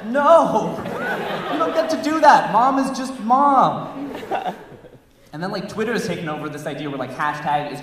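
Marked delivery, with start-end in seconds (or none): 0.1-4.1 loud, high, indignant protest; mock outrage. Comic rejecting a mom hashtag, outraged high shout. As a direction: shout down the idea, then slow.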